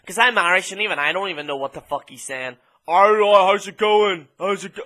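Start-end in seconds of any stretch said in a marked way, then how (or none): 2.9-4.8 put-on a light Austrian accent on the greeting; Arnold impression. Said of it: "that sounds like Arnold".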